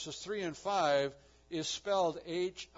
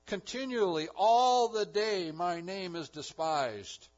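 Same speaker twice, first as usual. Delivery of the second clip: loud, slow proclamation; 4 semitones higher, 10 dB louder, slower than usual. Acted. Reading God's complaint, loud then slow.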